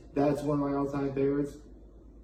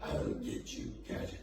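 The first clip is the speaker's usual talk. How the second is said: very low, breathy villain snarl; hissing reptile growl; 12 semitones lower, 12 dB quieter than usual. Retold or imitated. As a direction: rasp it out like a scheming villain. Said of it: "the same voice as, uh, Doctor Claw".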